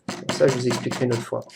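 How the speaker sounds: quick whispered afterthought; whispered aside. Real, not acted. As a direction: drop to a whisper, as if to yourself. Whispered aside ending the tutorial.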